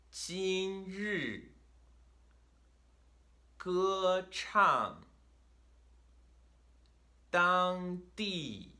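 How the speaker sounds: 今日, 歌唱, 当地, Shanghai, 欢乐 each high and flat, then falling sharply; first-fourth tone pairs. Shown as a demonstration. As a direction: hold high, then plunge to the floor in 今日, 歌唱, 当地, Shanghai, 欢乐. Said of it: "fourth tone starts very high".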